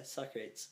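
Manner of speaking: "sock-rates", two syllables; misread Socrates. Shown as a demonstration. Confirming the wrong reading, mispronounced. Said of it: "Or Socrates".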